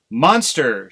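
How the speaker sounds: loud outraged cry of Monster; a mother crow crying out in shock; cried out. Acted. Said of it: "she cried".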